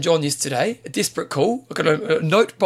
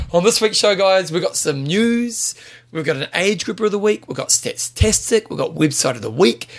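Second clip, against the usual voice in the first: punchy race caller rundown; 5 semitones higher than usual. Shown as a demonstration. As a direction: call it like the final lap. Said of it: "and I'm coming around the corner".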